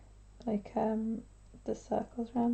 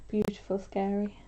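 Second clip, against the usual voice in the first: holding breath; 3 dB quieter than usual. Real, not acted. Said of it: "just holding my breath".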